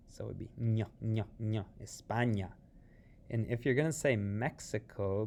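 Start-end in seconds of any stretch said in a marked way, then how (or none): 0.1-2.5 "ño" said with a clear ny sound; "España" with the ñ as ny, es-PA-nya; tilde sound. Shown as a demonstration. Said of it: "Notice it has that tilde".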